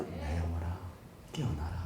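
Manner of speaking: weak mumble. Shown as a demonstration. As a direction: mumble it half-heartedly. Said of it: "소리냐?".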